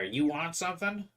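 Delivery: put-on a bossy call at the kid with the hair. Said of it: "you, kid with the hair".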